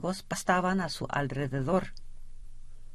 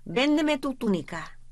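shouting boss; 7 semitones higher than usual. A narrator's reading. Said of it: "gritó el jefe".

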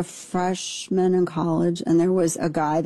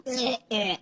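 disgusted grunt; 4 semitones higher, 6 dB quieter than usual. Retold or imitated. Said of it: "I was like".

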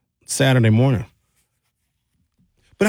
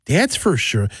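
put-on Wisconsin accent; 4 semitones higher than usual. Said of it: "He had that heavy Wisconsin accent".

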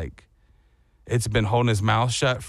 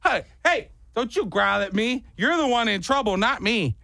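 high mock scolding; 8 semitones higher than usual. Dog growls, narrator mock-scolds it up high.

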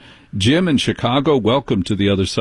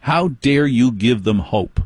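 imitating Cancer Man. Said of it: "Cancer Man confronted him and said".

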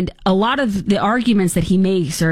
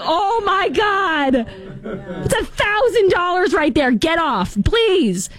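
much higher, slow, laughing mock wail; a pretend homeowner begging with laughter; mock panic; 10 semitones higher, much slower than usual. Host imitating herself yelling at a daughter on sprinklers, laughing mock panic. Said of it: "I would be like".

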